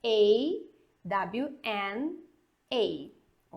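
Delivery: "A, W, N, A" with double N as W N; teacher spelling a name; spelling Ana. Shown as a demonstration. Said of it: "como que eu falaria".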